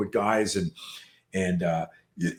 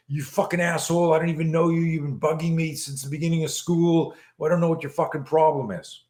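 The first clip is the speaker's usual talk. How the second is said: higher-pitched, mildly angry imitation; indignant retort; 4 semitones higher than usual. Boy stands up to his bully, mock indignant. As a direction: act out a fed-up teen's rant, pitched up.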